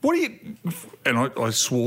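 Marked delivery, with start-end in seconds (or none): 0.0-0.3 high, exasperated outburst, cut short; retold losing it. Dad to son over the wrong fuel, losing it. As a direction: re-enact a dad starting to lose it. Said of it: "You lost it".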